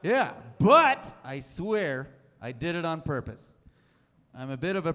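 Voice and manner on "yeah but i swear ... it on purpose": defensive insistence. Acted. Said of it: "they might notice that it is misspelled".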